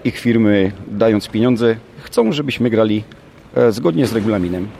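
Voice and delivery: mildly scornful retort, pitch often jumping up; mocking. Real, not acted. Coach answering accusations over the match date, mildly mocking. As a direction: push back with a touch of mockery, stressing each point. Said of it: "to ja też zaszydzę i powiem tak".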